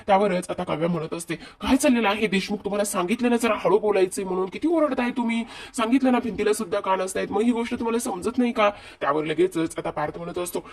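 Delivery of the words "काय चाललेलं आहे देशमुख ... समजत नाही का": higher-pitched imitated telling-off; exasperated, acted-out reprimand; scolding. Wife telling husband to keep his voice down, scolding. Kavya scolds Parth for shouting.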